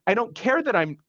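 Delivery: a touch of a brother demanding to get in; retold insistence. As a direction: imitate the brother pushing past the nurse. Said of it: "fighting with the nursing staff".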